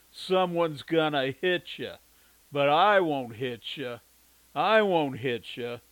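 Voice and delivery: slow, loud, clenched-jaw threat; through gritted teeth. A narrator's reading. The Duke threatening the man through gritted teeth. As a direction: grind each word out, barely holding back. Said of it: "through gritted teeth".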